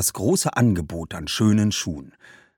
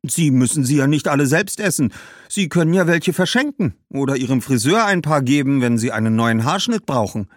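put-on higher, helpful girl's voice; persuasive young girl; 4 semitones higher than usual. Girl suggesting he give figs away, helpfully persuasive. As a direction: offer an easy solution.

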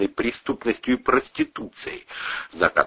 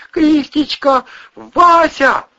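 calling out; 6 dB louder, much slower than usual. A narrator's reading. Голос зовёт громко.

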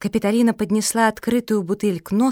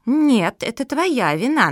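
pressing accusation; 4 semitones higher, slower than usual. Acted. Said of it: "наседала Матильда".

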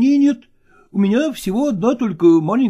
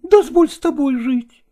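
put-on higher, pleading young woman; 12 semitones higher than usual. A narrator's reading. Nastina begs Lagorsky to let her live with him, higher pleading. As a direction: beg him not to leave. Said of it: "упрашивала она".

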